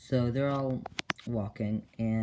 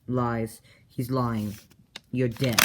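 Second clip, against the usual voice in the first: loud insistent accusation; getting louder toward the end; harsh accusing; 5 dB louder, much slower than usual. Retold or imitated. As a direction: bark the verdict. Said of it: "Zane's like".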